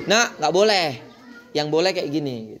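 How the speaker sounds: put-on mild, measured correction of a child; patient teacherly admonishing; advising. Shown as a demonstration. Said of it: "tapi dinasihati".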